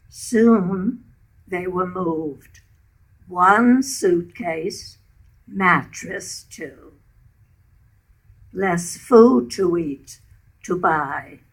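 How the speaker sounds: measured verse reading in short phrases; deliberate, line-by-line poem reading; narrative poem recital. Acted. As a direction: recite a war story in verse, pausing between phrases. Reads her story poem.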